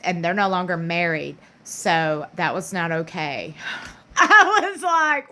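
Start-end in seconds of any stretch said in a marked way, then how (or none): 3.9-5.3 laughing. Real, not acted. Laughing recap commentary.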